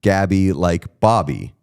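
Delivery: Gabby said slowly to rhyme with Bobby; slow, spelled-out "Gabby like Bobby"; rhyming pronunciation. Shown as a demonstration. Host reading a listener's pronunciation correction, rhyming demonstration. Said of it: "Is Pete mispronouncing Raleigh?".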